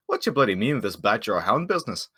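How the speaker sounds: lightly voiced gruff questioning; a hint of in-character bewilderment; puzzled dwarf. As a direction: press the goblin for an explanation.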